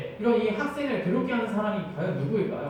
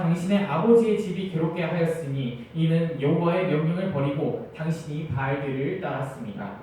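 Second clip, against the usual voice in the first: measured, slightly louder Bible reading; scripture reading; 4 dB louder than usual. Acted. Preacher reading Ahab and Elijah to the congregation, a formal Bible reading. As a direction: read the verses out to the congregation. Reads scripture passage aloud.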